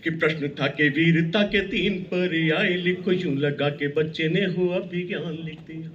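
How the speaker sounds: rhythmic, declaiming verse; poem recitation. Acted. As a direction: recite it like a stage poet.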